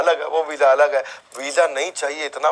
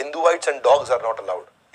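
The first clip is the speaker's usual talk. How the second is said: slow reading of sign; 2 semitones lower, much slower than usual. Retold or imitated. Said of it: "board लगा दिया".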